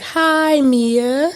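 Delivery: high, chirpy chorus greeting; support group crowd. Acted. Wife plays the support group crowd greeting her, high chirpy chorus. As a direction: answer like a whole support group in unison. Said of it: "I need the crowd to be like".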